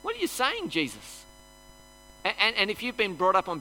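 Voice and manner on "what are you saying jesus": mock freak-out. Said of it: "we start to freak out".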